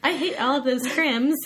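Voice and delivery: laughing while talking; giggling through the words. Real, not acted. Joking, laughing through the line.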